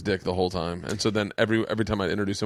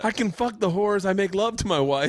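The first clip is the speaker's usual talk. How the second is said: John Leguizamo impression; 10 semitones higher than usual. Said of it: "is that John Leguizamo and Summer of Sam shit".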